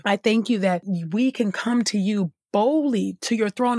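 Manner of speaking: earnest prayer voice, addressing God directly; spoken prayer. Acted. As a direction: pray aloud with devotion, lingering on "oh God".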